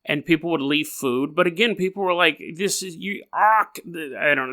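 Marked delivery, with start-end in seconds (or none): 2.6-3.8 mock Scottish accent, lightly put on; a quick, hammy Scottish voice; a playful attempt at a Scottish accent; Scottish impression. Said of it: "that was my Scottish impression".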